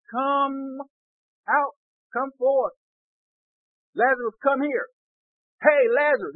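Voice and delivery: high, punchy summons; acted yell. Preacher plays Jesus summoning Lazarus from the tomb, acted yell. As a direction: call someone out from a distance. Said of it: "And he yelled".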